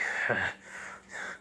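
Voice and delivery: soft, long voiceless breath out; exasperated sigh. Acted. Zabuza answering the teasing woman, exasperated sigh. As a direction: sigh quietly before answering.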